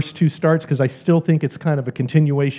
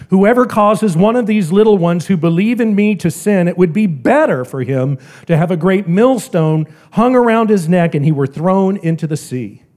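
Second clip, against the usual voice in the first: forceful scripture; 3 semitones higher, 4 dB louder than usual. Acted. Preacher quotes scripture with force.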